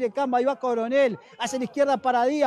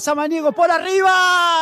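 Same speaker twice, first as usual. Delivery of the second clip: excited build-up; 4 semitones higher, 6 dB louder than usual. Real, not acted. Build to goal.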